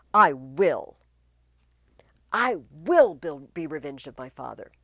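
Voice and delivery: loud, raging vow of revenge; furious revenge. Acted. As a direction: swear revenge with fury. Laertes swears revenge.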